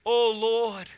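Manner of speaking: earnest, steady prayer voice; closing prayer. Acted. Pastor praying over the congregation at the close, earnest. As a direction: plead with God for the church.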